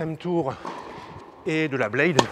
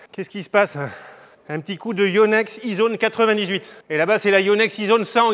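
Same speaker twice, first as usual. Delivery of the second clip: calling out; 4 semitones higher, 5 dB louder than usual. Real, not acted. Calling across the court.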